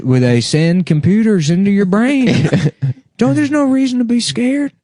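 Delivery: high coaxing voice; mock-gentle guard coaxing the inmate; fake reassuring guard. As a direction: soothe him into the chair.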